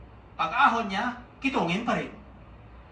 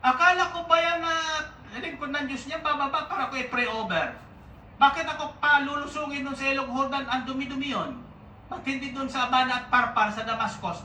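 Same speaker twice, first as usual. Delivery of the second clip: angry general; 6 semitones higher than usual. Acted. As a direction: storm at the prophet's insult, voice way up. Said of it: "Nagalit si Naaman".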